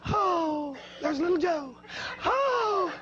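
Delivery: put-on high, breathy-free swoon of admiring girls; mock swooning young ladies. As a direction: coo like smitten young ladies. Pretty girls swooning at the rider.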